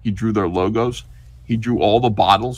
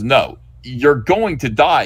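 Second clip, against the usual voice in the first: slow doom; 3 semitones higher, 5 dB louder, slower than usual. Acted. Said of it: "And he goes".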